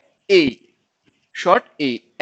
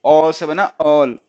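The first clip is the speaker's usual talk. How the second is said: all stretched very slowly and clearly; slow sounding out; 2 semitones lower, 5 dB louder, much slower than usual. Shown as a demonstration. Teacher slowly sounding out all for students. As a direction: spell it out slowly for pupils. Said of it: "इसको हम ओ read करेंगे".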